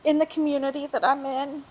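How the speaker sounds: holding back tears while speaking; teary. Real, not acted. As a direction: voice on the edge of tears. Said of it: "I really didn't think I was gonna get teary".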